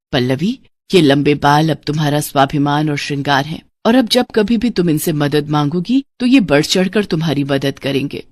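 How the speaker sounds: lightly voiced mother's spirit giving a blessing; माँ की आत्मा. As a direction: bestow a gift on your daughter, low and calm. (माँ का शांत आशीर्वाद)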